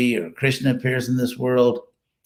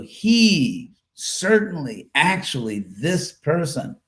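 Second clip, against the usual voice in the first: "he", "certainly", "actually" each set apart; slow, weighty "this person", with "certainly" pitched high; emphatic stress; 3 semitones higher, slower than usual. Shown as a demonstration. Teacher showing how overdone the literal translation sounds, emphatic stress. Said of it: "it's extremely emphatic".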